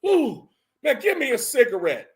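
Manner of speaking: high, loud, laughing shout of excitement; hyped-up quote. Retold or imitated. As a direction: yell it out giddy, half laughing, high and loud. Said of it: "he was like".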